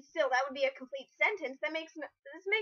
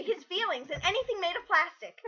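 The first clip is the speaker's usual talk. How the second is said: mock recital; 4 semitones higher than usual. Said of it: "You come up to someone and say".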